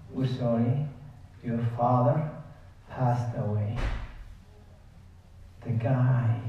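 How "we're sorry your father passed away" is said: subdued, quiet delivery of bad news; hushed condolence. Nursing home calls the son to say his father died, hushed.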